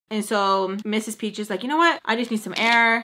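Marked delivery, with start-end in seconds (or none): 1.6-3.0 dramatic. Retold or imitated. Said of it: "So dramatic".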